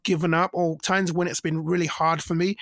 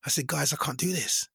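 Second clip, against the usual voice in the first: slowing down; 4 semitones lower, 6 dB quieter than usual. Retold or imitated. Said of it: "I started slowing down".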